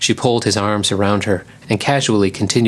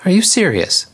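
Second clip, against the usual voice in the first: high-pitched disbelief; incredulous question; 11 semitones higher, 3 dB louder than usual. Acted. Lioness questions a dumbfounded Simon, incredulous. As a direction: ask it in high, amazed disbelief.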